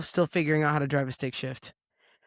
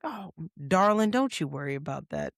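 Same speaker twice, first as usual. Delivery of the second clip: Kim Burney. Retold or imitated. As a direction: imitate a comforting Southern mom. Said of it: "Like, she's very soothing".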